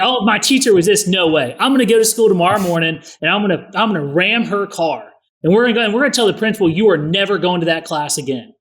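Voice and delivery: mock-furious dad vowing revenge on the teacher; over-the-top parent. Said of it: "I tend to over-exaggerate".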